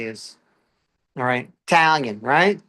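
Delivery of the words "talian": "Italian" squeezed to two syllables; punchy "Italian" as "TAL-yun"; said with attitude. Shown as a demonstration. Comic names his nationality to crowd, with attitude. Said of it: "they gotta say with attitude".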